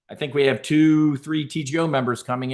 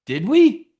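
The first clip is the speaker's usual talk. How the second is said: sarcastic; 10 semitones higher, 7 dB louder than usual. Real, not acted. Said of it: "sarcastic rhetorical question".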